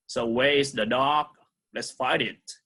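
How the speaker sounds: ordinary talk, nothing marked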